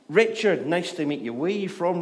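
friendly greeting. Retold or imitated. Greeting a new kid, retold.

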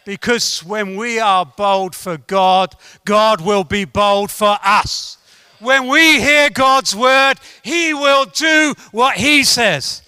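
building preacher's declaration; full-force preaching. Real, not acted. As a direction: proclaim it boldly to the congregation.

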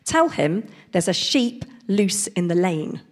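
slow, firm bobby giving a message; London policeman. Acted. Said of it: "said the policeman".

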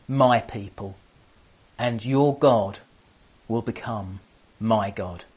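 slow, solemn, swelling on each "Where you" phrase; Ruth's vow. Retold or imitated. Daughter-in-law vowing loyalty to her mother-in-law, slow and solemn. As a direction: pledge it like a sacred vow. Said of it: "She says".

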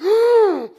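huge high imitated gasp; loud, theatrical gasp; everyone gasping. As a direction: act out a roomful of shock. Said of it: "like that".

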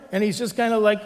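usual speaking voice

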